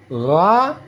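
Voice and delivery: "Ra" as a gargled GH; throaty buzz drawn through "Ra"; vibrating ghain. Shown as a demonstration. Teacher introducing the letter, "Ra" gargled. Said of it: "cara bacanya seperti ada ge".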